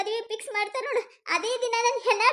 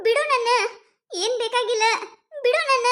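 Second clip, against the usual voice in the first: louder refusal; 4 dB louder than usual. Acted. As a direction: let me go, louder and sharper. She pushes him away. (ರವಿಯನ್ನು ದೂರ ತಳ್ಳುವ ಜಾನು, ಜೋರಾದ ಸಿಟ್ಟಿನ ಕೂಗು)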